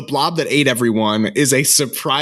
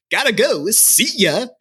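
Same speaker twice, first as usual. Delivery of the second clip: higher-pitched mock casual sign-off; light, higher imitation of a kid's goodbye; breezy exit line; 8 semitones higher than usual. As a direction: toss it off as an imitated strolling exit. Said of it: "strolls out and he goes".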